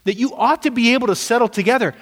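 exasperated apostle chiding bickering believers; indignant rebuke. Retold or imitated. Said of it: "he throws a fastball and says".

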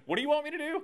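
high, incredulous what do you want me to do; exasperated disbelief. Acted. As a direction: throw up your hands as the helpless king. Le roi ironise, paraphrase.

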